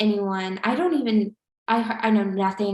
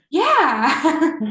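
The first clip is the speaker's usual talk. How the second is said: laughing yeah; 6 semitones higher, 6 dB louder than usual. Retold or imitated. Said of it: "And he's like".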